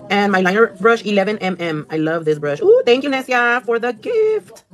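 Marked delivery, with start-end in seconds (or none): 2.6-4.6 singsong thanks. Real, not acted. Thanking a viewer's gift.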